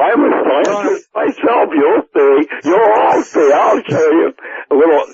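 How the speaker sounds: mad scientist horror-movie voice; menacing, rising mad scientist boast; Boris Karloff. Acted. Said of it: "Boris Karloff".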